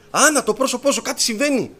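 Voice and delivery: high, loud imitation of mother calling out; retold cry of alarm. Mother sees a vision in Anna's face, crying out. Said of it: "αρχίζει και φωνάζει".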